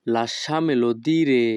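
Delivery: each Italian word spoken slowly and clearly; teacher modelling Italian for learners, very slow; slow demo. Shown as a demonstration. Bengali teacher models Italian phrase for students, slow and careful. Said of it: "Italian phrase demo".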